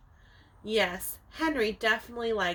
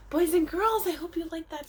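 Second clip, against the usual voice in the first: calling the class; 6 semitones higher, 5 dB louder than usual. Real, not acted.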